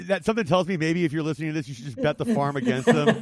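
laughing through the words. Real, not acted. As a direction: chuckle while you say it. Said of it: "laughing while joking".

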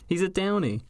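Boston local calling him a townie; Boston accent. Acted. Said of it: "I'm gonna keep doing my Boston voice".

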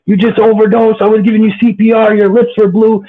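high, strained mock yell, retelling a friend's outburst; imitated screaming. Friend screaming at Wes after his overdose, high mock yell. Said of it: "He's screaming in my face".

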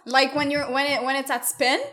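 lightly drawled southern tones, sounding out a podcast tip; southern accent. Pretend. Podcast host tells listeners a sex tip in a light southern accent. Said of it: "I'm doing a southern accent right now".

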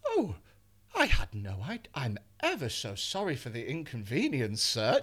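a hint of a posh apologetic gent; overly polite. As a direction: grovel politely to the boss. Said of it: "polite my way out".

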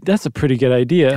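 put-on light New Orleans accent. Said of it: "That was my New Orleans accent".

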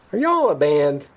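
high-pitched imitation of a curious stranger; nosy stranger. Curious strangers quizzing the band.

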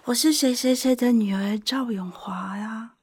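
slow, held-breath self-introduction; after a sharp breath. Retold or imitated. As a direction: re-enact bracing yourself with an intake of breath. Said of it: "我就倒抽一口气说".

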